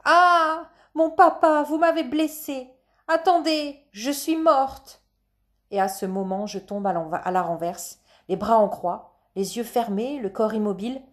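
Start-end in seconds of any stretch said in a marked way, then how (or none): 0.0-5.0 high, wailing mock death cry; theatrical cry. A narrator's reading. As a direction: cry out as if fatally struck. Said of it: "et je crie". (cri aigu de fausse mourante)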